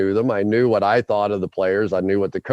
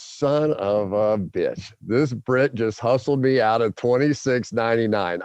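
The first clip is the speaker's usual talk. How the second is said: mad inner thought. Retold or imitated. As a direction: grumble it like you've just been conned. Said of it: "I was so mad".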